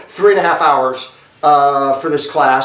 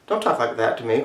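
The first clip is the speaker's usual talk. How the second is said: low, quiet hostility; a restrained, hostile warning; 3 semitones lower, 6 dB quieter than usual. Shown as a demonstration. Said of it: "right now they're being hostile".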